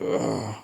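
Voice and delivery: mock groan of reluctance; reluctant groan. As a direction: groan like someone balking. Voicing men reluctant to cry.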